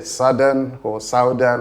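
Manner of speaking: southern with ow and hard d; southern as SOW-dern; mock mistakes; wrong pronunciation. Shown as a demonstration. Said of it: "not te or de".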